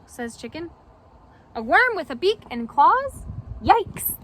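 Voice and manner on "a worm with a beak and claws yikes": mock alarm. Chicken alarmed by worm.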